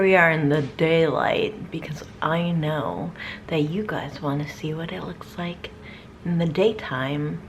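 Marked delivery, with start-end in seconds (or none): 1.7-5.7 a vampire whispering so the sun won't find her. Pretend. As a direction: whisper as if hiding from the daylight. Hiding from daylight as a vampire.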